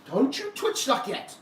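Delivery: warning a twitchy snake; scolding the snake. Real, not acted. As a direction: tell the snake off, drawn out. Scolding the snake mid-handling.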